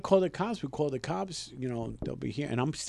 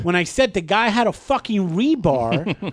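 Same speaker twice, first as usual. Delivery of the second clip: exasperated mock tirade, pitched up; retold angry outburst; 5 semitones higher, 3 dB louder than usual. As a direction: rant indignantly as in the retold argument. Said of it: "that's when I fucking lost it".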